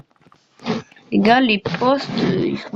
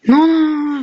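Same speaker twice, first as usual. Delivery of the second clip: alarmed; 6 semitones higher, 4 dB louder than usual. Real, not acted. Trying to stop teammates.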